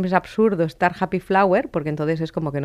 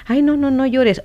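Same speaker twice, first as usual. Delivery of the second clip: higher, louder mock fussing over a crying child; imitated parental hushing; 7 semitones higher, 5 dB louder than usual. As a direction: hush a crying child, pitched up.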